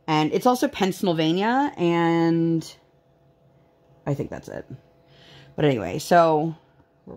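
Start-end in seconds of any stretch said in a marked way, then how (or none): 0.7-1.7 "Pennsylvania" said with its middle garbled, like "Pen-snl-vania"; "Pennsylvania" with the l slid behind an n; child's mispronunciation. Retold or imitated. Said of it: "she definitely says it that way".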